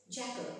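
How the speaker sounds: "jackal" as JACK-ul; correct pronunciation. Shown as a demonstration. Teacher repeats the model, "jackal" as JACK-ul. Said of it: "The pronunciation is jackal".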